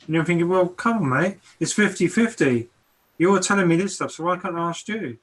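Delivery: lightly heated, pushing back at an accuser; mock indignant retort. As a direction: argue back in mild mock protest. Acts out a heated back-and-forth.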